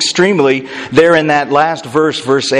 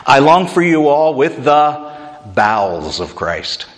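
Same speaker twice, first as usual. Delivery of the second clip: King James reading. Acted. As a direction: intone it like the old King James. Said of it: "Do you know what the King James says".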